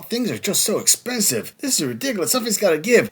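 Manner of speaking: mock whiny grandma. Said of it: "Oh, dang it, Grandma".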